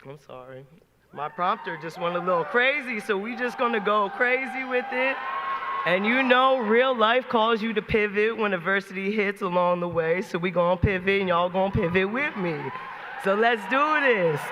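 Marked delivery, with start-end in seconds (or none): 3.0-14.4 rally speech. Real, not acted. Pumping up the crowd.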